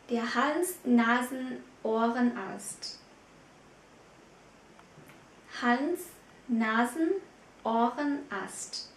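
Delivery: Hals-Nasen-Ohrenarzt drawn out very slowly, part by part; slow model word. Shown as a demonstration. Teacher slowly models Hals-Nasen-Ohrenarzt for students, very slow. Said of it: "viết tắt là H N U Arzt".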